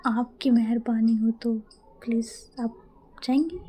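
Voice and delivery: slow, hammed-up humble plea; theatrical pleading to madam; mock pleading. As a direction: beg like a poor servant, drawn out. Mock begging the boss.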